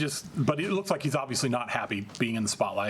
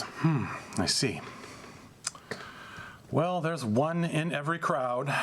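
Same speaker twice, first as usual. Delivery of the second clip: a hint of a cold, slow condescending prince; menacing vampire prince. Vampire Prince Antonio addressing the heckling Brujah, slow cold condescension. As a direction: talk down to the upstart, unhurried.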